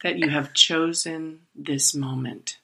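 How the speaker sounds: slow, soft meditation-teacher voice; unhurried mock-serene self-coaching; guided meditation voice. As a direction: talk yourself down slowly and gently, like an Eckhart Tolle tape. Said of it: "I'm talking in this voice to myself".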